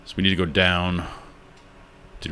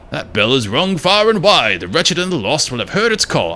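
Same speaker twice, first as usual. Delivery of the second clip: ominous grump character; 7 semitones higher than usual. Acted. NPC dialogue continues.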